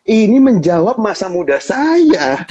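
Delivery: slow words through laughter; laughing. Real, not acted. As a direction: chuckle as you admit it. Host laughs at own youth. (sambil tertawa pelan)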